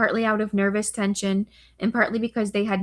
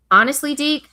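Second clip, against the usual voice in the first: put-on thick Moroccan Israeli accent, higher; 6 semitones higher, 7 dB louder than usual. A narrator's reading. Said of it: "his accent just as thick as Zadok's".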